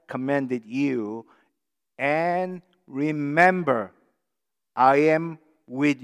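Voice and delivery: measured, solemn reading of the verse; scripture reading. Acted. Pastor reading Jesus' words to the church, solemn. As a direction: read it as holy words, slowing at the end.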